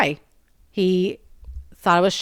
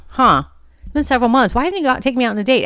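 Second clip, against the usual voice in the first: puzzled disbelief; 6 semitones higher than usual. Retold or imitated. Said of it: "I was like".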